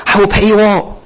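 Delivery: high, laughing mock promise; mock plea with a laugh. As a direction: scoff at the empty promise through a chuckle. Repeats plea mockingly, laughing.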